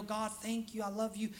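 soft, hushed thanks to God; reverent prayer. Shown as a demonstration. Showing reverent prayer to the congregation, softly. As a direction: pray it gently and reverently. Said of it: "in a reverent manner".

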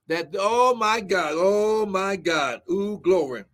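praying aloud with bursts of tongues; intoned Pentecostal prayer; fervent prayer. Real, not acted. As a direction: pray over the congregation, caught up in praise. Prays aloud, speaking in tongues.

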